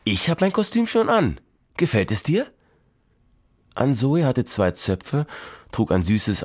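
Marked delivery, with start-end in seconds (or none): 0.0-2.5 showing off. Acted. Ann-Zoe shows off her costume.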